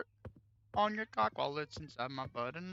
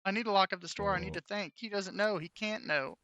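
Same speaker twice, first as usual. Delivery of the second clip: worried inner voice; 7 semitones higher than usual. Pretend. Voices worried Gary's thoughts.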